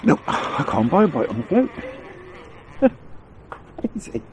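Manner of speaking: ordinary talk, nothing marked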